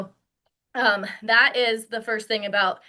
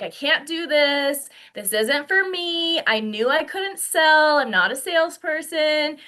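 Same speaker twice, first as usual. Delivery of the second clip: pitched-up mock whine of self-doubt; hammed-up "can't do it" fretting; fear, self-doubt; 4 semitones higher than usual. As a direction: act out a discouraged beginner, a bit higher. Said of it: "which is fear".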